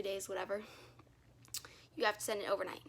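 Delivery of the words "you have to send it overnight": breathless, panting from the stairs; gasping between words; out of breath. Real, not acted. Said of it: "so I'm out of breath".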